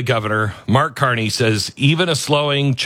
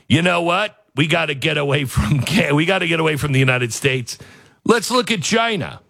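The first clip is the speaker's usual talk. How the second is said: Trump voice; 3 semitones higher than usual. Retold or imitated. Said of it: "I shouldn't use a Trump voice".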